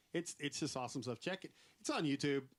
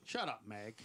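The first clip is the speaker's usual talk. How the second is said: Peter Griffin voice; 3 semitones lower, slower than usual. Retold or imitated. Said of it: "you kinda had a Meg cadence".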